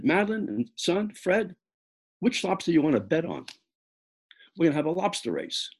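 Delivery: high, excited race announcer; excited announcement. Retold or imitated.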